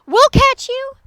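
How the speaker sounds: high, frantic encouragement; loud rallying cries; shouting. A narrator's reading. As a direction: yell urgent help upward. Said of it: "the prairie dog shouted".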